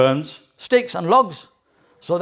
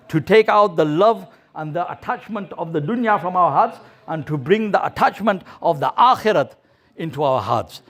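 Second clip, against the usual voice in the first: earnest appeal to the brothers; preaching. Acted. Preacher to his brothers in the mosque, earnest appeal. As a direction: urge them to go out for Allah.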